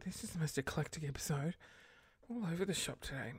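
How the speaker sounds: whispered, confiding remark; whispered aside. Real, not acted. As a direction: whisper it like a secret.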